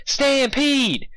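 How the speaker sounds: high, loud warning holler. Acted. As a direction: holler the alarm. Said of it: "she hollered".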